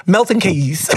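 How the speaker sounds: "Milton Keys" said with Keys as a plain KEEZ. Shown as a demonstration. Vlogger unsure of the UK town name, saying "Milton Keys" as KEEZ. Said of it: "I said Keys".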